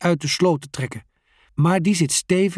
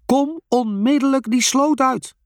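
high, loud angry command; roaring order; 12 semitones higher, 4 dB louder than usual. A narrator's reading. The father roars at the boys to get out. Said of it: "brult hij".

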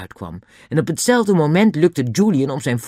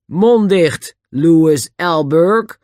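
loud, raised, stern command; sharp; 6 semitones higher, 7 dB louder, much slower than usual. A narrator's reading. The inspector silences the prisoner, sharply. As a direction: cut him off with police authority. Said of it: "zei de voorste agent scherp".

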